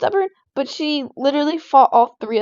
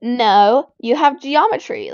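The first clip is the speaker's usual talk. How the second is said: retold yell, loud on No; half-yelled retold insistence; mock yell; 4 dB louder, slower than usual. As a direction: imitate a stubborn contradiction, No punched hard. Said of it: "she started yelling it at me".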